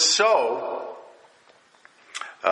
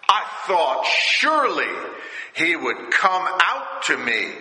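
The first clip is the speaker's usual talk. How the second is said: indignant Naaman, pitched up high; wroth; 5 semitones higher than usual. Acted. Naaman complaining that the prophet never came out, pitched up high. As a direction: let the offended pride rise in his voice. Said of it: "Naaman was wroth".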